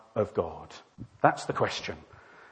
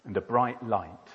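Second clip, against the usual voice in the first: hushed awe as everything freezes; suspenseful story narration; 4 dB louder, slower than usual. Acted. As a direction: let each short phrase hang. Narrates time stopping.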